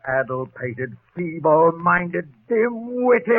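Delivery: slow, spat-out string of insults; sputtering insults. Acted. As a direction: chew out the fools one word at a time. Insulting the culprits.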